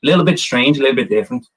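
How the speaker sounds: light Dublin accent; a mild southern Irish Dublin lilt. Shown as a demonstration. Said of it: "I'll do a Dublin accent for you".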